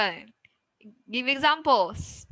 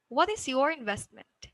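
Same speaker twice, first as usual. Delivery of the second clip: raised early, "investment" falling to the end; rising-falling question; 2 semitones higher than usual. Shown as a demonstration. Teacher models an open question, rising then falling. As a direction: lift the question, then let "investment" drop. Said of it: "rising, falling intonation".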